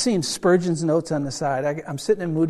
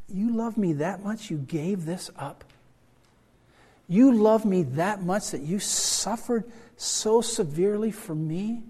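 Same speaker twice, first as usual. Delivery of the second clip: slow, higher, overwhelmed disbelief; awed wonder; 4 semitones higher, slower than usual. Acted. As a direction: marvel slowly at being loved so much. Imagined awe meeting Jesus.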